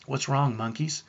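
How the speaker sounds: gently imitated sweet Southern mom; compassionate Southern mom. Wife asks tearful twins what's wrong, compassionate Southern accent. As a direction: ask with a touch of Southern tenderness. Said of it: "With compassion in her voice ... sweet Southern accent".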